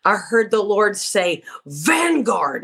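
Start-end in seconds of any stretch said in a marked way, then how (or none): 1.7-2.6 one word called out hard and forceful; forceful command. Retold or imitated. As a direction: ring it out like a voice from heaven. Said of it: "he said it very forcefully like that".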